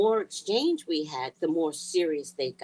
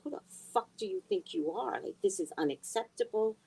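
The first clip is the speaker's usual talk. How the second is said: high, fast furious telling-off; mock-furious reaming out; retold rant; 9 semitones higher than usual. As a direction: rip into your son again, fast and high. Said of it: "I reamed him".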